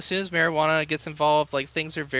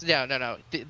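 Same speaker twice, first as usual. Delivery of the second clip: ordinary talk, nothing marked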